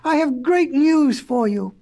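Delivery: mildly excited cry. Acted. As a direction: call out happy news. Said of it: "cried the professor".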